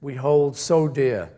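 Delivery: measured, solemn reading of a poem; poem recitation. Acted. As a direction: read each line like a cherished verse. Recites his poem to audience.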